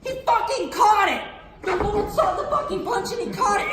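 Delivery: loud, high-pitched disbelief; astonished outburst. Retold or imitated. Comic telling how God caught the punch, loud astonishment. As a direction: burst out amazed and indignant.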